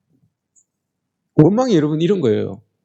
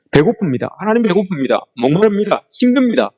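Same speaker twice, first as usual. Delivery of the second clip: rising whine, each line higher; whining complaint; 3 semitones higher than usual. Retold or imitated. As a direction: moan each need, climbing in pitch. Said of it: "이 말을 여러분 그렇게 하는 거예요". (점점 높아지는 징징대는 불평)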